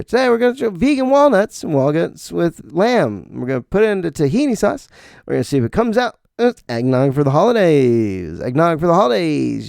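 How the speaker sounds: high, bubbly TV chef patter; over-the-top celebrity chef voice; Rachael Ray chef mode. Retold or imitated. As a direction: ham up a perky cooking-show host. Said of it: "Rachael Ray celebrity chef mode".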